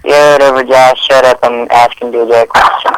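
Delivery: dismissive over speakerphone; phone speaker. Real, not acted. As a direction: brush him off on speaker. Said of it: "you're on speaker".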